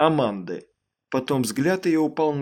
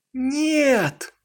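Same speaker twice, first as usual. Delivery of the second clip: high panicked scream; a terrified no; panicked wail; 11 semitones higher, 4 dB louder than usual. A narrator's reading. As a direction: cry out in horror. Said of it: "В её паническом вопле".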